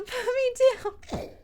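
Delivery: laughing yell. Acted. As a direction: crack up mid-yell. Repeats line laughing.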